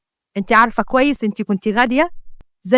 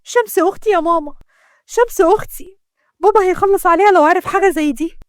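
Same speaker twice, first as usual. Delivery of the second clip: higher, pleading with a touch of tears; tearful; 5 semitones higher than usual. Acted. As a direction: appeal anxiously to mother. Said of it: "بصيت بدموع وقلت".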